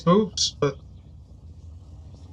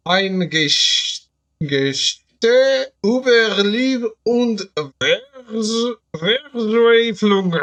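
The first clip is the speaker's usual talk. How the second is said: slow, higher, drawn-out movie-trailer reading; dramatic trailer voice; 4 semitones higher, much slower than usual. Pretend. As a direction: read it like an epic horror trailer. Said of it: "You don't have to do that with your voice".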